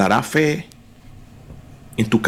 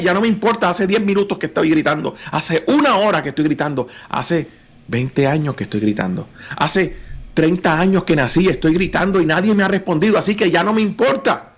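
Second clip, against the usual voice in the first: fed up; 4 semitones higher than usual. Acted. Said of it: "Bartimeo podía haberle dicho".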